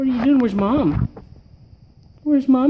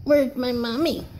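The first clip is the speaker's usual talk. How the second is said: talking doll. Pretend.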